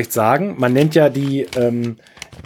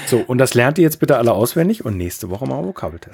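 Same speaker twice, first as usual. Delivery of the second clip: strict teacher; 2 semitones lower than usual. Pretend. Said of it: "Der Lehrer kommt".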